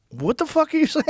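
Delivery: very high mock-incredulous squeal; comic high-pitched disbelief; imitated shock. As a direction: voice his stunned reaction, breaking into a laugh. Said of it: "You could see his face".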